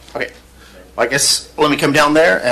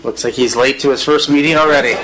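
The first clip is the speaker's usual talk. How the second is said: laughing; 2 semitones higher than usual. Real, not acted. Joking about late councilman.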